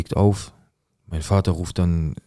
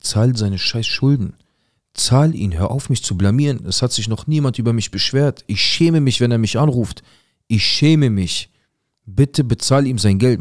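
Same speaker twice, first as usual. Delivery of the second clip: retold exasperated outburst, pitch raised; father losing it; 5 semitones higher, 3 dB louder than usual. Father phones the man who owes the debt, exasperated. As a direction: imitate a father at the end of his patience. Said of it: "Mein Vater ist am Durchdrehen".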